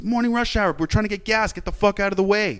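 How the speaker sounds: high-pitched, retold frustrated rant; boiling exasperation. Venting at the driver blocking both pumps, exasperated. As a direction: voice the anger high, without shouting. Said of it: "my blood was boiling".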